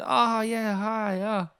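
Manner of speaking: high, light mock Canelo reply; imitating Canelo. The speaker imitating Canelo recognising him, high mock surprise. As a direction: play his surprised hello.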